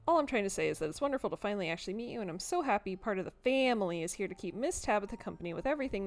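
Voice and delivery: lightly voiced, eager housekeeper rambling on; gushing chatty cleaner. Cleaner happy to meet the family, gushing. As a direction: gush with lilting pitch.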